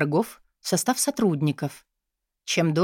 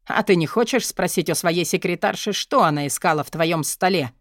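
sly, silky insinuation; predatory smile. Acted. Dmitry baiting his twin about the secretary, sly grin. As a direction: bait his brother, grinning. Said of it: "хищно улыбнулся Дмитрий".

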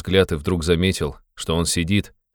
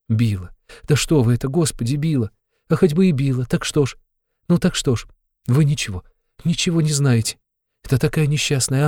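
put-on much higher, pleading voice of a distressed young woman; Sonya, impassioned girl; 6 semitones higher than usual. A narrator's reading. A girl passionately defending her stepmother, pleading. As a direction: cry out in her defence, near tears.

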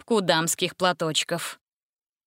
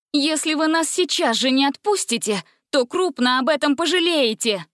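higher, loud defiant threat; angry threat; 7 semitones higher, 3 dB louder than usual. A narrator's reading. Gretel straining at chains.

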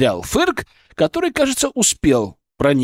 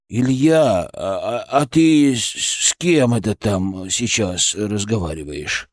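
puzzled colleague; 7 semitones lower, slower than usual. Acted. Voices puzzled colleague Ponchik.

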